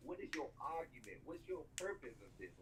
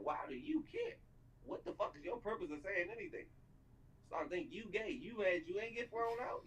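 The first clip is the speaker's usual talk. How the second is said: incredulous high-pitched rant; 8 semitones higher than usual. Real, not acted. Heated rant at a commenter.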